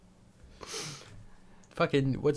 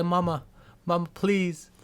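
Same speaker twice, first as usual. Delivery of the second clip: put-on Italian accent; 3 semitones higher, 3 dB louder than usual. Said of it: "I was doing Italian".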